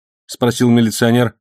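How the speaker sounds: usual speaking voice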